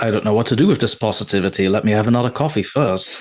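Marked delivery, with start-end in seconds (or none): none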